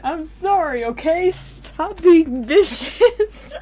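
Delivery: angry apology. Real, not acted. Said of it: "angry apology".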